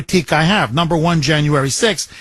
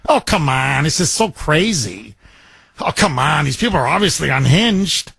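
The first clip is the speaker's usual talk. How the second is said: lower, dismissive mock "oh, come on"; mock eye-rolling dismissal; 5 semitones lower than usual. Host mocking conservative pundits, lower dismissive eye-roll. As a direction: brush it off like it's absurd, imitating. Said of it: "they just roll their eyes like".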